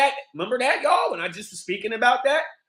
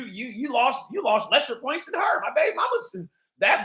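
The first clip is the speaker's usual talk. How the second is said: ordinary talk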